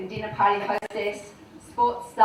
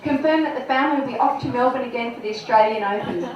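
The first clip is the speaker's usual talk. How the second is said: put-on giggly girlish diary voice; embarrassed diary reading. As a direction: read the diary as a gushing girl. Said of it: "Dear diary".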